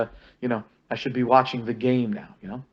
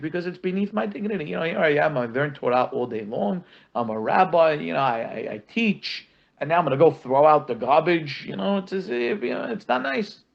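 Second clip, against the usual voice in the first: mock proud student; 3 semitones higher than usual. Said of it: "He says".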